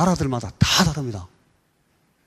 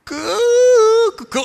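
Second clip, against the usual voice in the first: Timor rooster cry; 10 dB louder than usual. Shown as a demonstration. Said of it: "이렇게 웁니다, 닭이".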